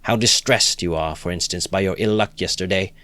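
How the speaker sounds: simple-hearted friend crying out in praise; earnest cry. Acted. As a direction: insist warmly, with passion. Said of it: "cried the simple-hearted Lebeziatnikov".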